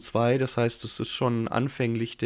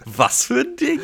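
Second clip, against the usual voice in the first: laughing disbelief; 13 semitones higher, 6 dB louder than usual. Real, not acted. Disbelief at odd episode title.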